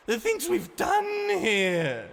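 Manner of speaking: high, loud trembling fury; furious shaking outcry; shaking with rage. Acted. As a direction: let the anger shake through. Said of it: "Ani shook as she spoke".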